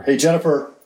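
mild call across the yard, easing off; half-voiced calling out; retold yell. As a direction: call a child in, without real force. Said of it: "so I yelled to her".

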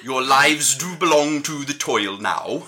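solemn mock-Welsh pronouncement; Welsh accent. Warden sentences the inmates to toil, Welsh accent. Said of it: "a Welsh accent".

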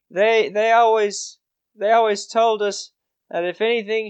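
lightly voiced boy, high then settling down; a touch of a hesitant youngster recalling instructions; earnest orphaned boy. Farm boy telling adventurers about his uncle, lightly boyish and earnest.

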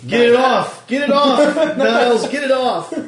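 shaking off a spider. Pretend. Creatures crawling on his butler.

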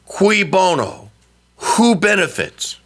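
ordinary talk, nothing marked

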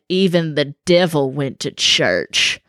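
slow, drawn-out Southern drawl; Southern accent. Retold or imitated. Retelling a Dateline podcast interviewee, in a slow Southern accent. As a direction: imitate a Southern churchgoer, slowly and deliberately. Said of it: "this man in this accent".

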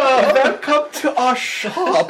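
slow, high German shopkeeper welcome; laughing, hammed-up German greeting; friendly German. GM plays a good-guy German shop owner, slow high voice.

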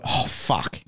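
breathy, near-whispered realization; dismayed under-breath curse. Retold or imitated. Student caught spying on the visiting master, dismayed under-breath curse. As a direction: curse softly as if just caught. Retold dread on being spotted.

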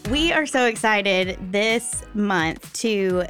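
usual speaking voice

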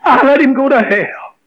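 sobbing the confession out; retelling a moment of weeping; breaking down crying. Retold or imitated. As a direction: voice cracking into tears, rising on the repeat. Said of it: "And I just broke out crying".

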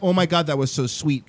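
understated mock tenderness; mock touched reaction. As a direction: pretend to be moved by sweetness. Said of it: "kind of cry".

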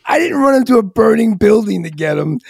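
mock-exasperated stand-up retelling; Bill Burr. Retelling a comedian's bit about a rescued dog, mock indignant. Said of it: "there's this great comedian, Bill Burr".

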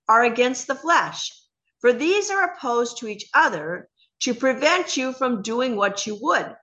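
measured, emphatic Bible reading; scripture reading. Acted.

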